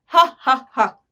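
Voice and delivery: mock hearty "ha ha ha"; spelt-out stage laugh, punched; acted laughter. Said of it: "तो महाराज क्या कर रहे हैं?". (नकली ठहाका)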